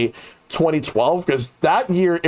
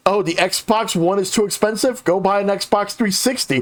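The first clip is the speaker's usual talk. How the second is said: mock dismissive, pitched up; 5 semitones higher than usual. Xbox spokesman answering complaints about price, mockingly dismissive. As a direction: imitate a glib brush-off in a higher voice. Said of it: "that kind of dismissive attitude".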